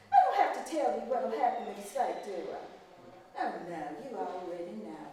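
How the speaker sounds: a hint of a cold, scolding mistress; stern plantation mistress. Mistress scolding the maid over the broken vase, coldly.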